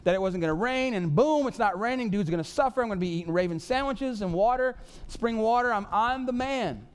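hammed-up triumphant whoop, then bragging; celebrating Elijah; gloating. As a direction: crow over the king like a winner. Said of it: "And he's like".

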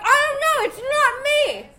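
very high, loud protest; mock innocent denial. Girlfriend denies the fart to boyfriend, mock innocent. Acts out her own guilty denial.

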